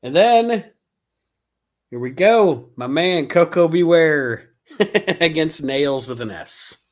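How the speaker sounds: booming ring announcer. Pretend. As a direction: hype up the matchup like an announcer. Announcing the match card.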